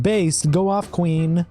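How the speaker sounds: high, put-on gushing fan, mocking. Tweeter mocks imagined fans in a gushing voice. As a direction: sneer it like a gushing fan cheering her on.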